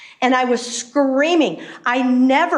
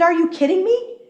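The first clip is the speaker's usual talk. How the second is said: incredulous; 6 semitones higher than usual. Retold or imitated. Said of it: "I said".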